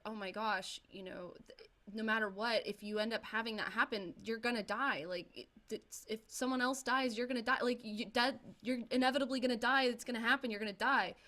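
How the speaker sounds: put-on dramatised teen freak-out, rising to a loud finish; panicked rant. Friend panicking over horror film.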